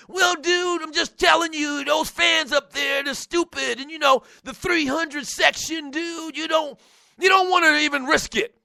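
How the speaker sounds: lightly voiced caller, friendly but warning; a hint of a laid-back dude warning his buddy; callers' warning voice. Fan on the phone warning the host, lightly voiced. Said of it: "doing my Bob for Martin's voice".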